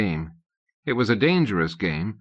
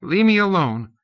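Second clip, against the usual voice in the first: quavering; 9 semitones higher, 4 dB louder than usual. A narrator's reading. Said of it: "His voice was quavering".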